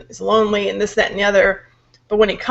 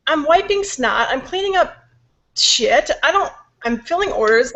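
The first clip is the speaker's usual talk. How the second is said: higher-pitched, exasperated listing; irritated; 5 semitones higher than usual. Retold or imitated. Busy mom answering what are you doing, irritated. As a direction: list the chores with annoyance. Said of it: "like, irritated".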